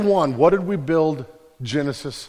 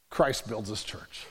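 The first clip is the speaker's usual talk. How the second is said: quiet resolve; 6 semitones lower, 10 dB quieter, slower than usual. Real, not acted. Soft resolution after build.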